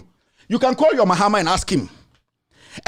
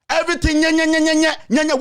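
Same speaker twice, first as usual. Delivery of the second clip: mocking babble; 5 semitones higher than usual. Mocking a rival's empty talk.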